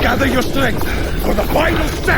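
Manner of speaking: high, bright cheering for the runner; triumphant rallying call; excited cheer. Acted. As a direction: cheer them over the finish line.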